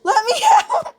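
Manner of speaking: high, loud playful cry; mock shouting. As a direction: shout it like you're trapped. Trapped, shouting to get out.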